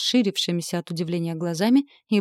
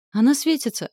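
high squeak, Bobbi startled; squeaky; 8 semitones higher, 5 dB louder than usual. A narrator's reading. Bobbi squeaks in alarm that the heroine is glowing, high squeak. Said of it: "пискнула Бобби".

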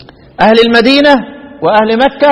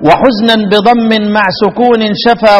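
slow chanted recitation of the verse. Shown as a demonstration. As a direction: recite the line slowly, measured. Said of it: "teacher recites verse slowly".

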